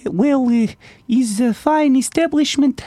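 high, heavy Russian wife voice; Russian accent. Acted. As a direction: ham up a thick Russian accent. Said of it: "played as this Russian dude".

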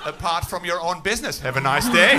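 measured German announcer with long deadpan pauses; German train announcement. Acted. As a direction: deliver it as an official notice, then a firm sign-off. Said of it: "The German equivalent of that announcement".

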